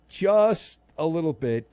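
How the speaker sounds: slow drawn-out repeat for comic effect. Shown as a demonstration. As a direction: savor it, drag the words out.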